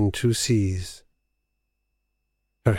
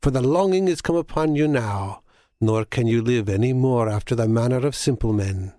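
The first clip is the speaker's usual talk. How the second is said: put-on crying old crone; 2 semitones higher than usual. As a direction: call it out like a seagull hag. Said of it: "cried she".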